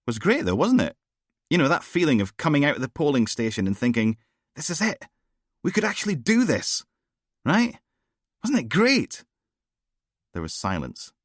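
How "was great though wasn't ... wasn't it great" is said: much higher, giddy and eager; gushing, carried away by the memory; excited young constable. Acted. Rennie gushing to his bosses about the vote, excited.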